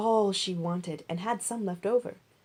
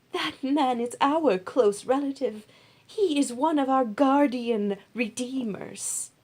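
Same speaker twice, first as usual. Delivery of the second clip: higher, louder, slow and emphatic; Naomi, excited; 6 semitones higher, 4 dB louder than usual. Acted. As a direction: let her hope rise as she explains. Naomi explains kinship.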